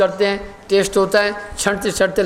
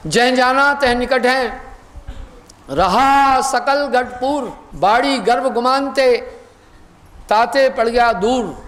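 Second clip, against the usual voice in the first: slow, drawn-out chanting of a verse; दोहे का धीमा पाठ; couplet recitation; slower than usual. Acted. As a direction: intone the doha slowly, like scripture.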